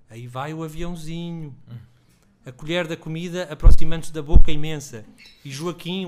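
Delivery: steady literary reading aloud; story reading. A narrator's reading. Author reading his story aloud to an audience, steady narration.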